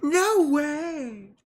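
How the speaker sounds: high, loud, incredulous gasp; shocked disbelief. Retold or imitated. Retelling her reaction, high and loud disbelief. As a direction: act out being floored by the number.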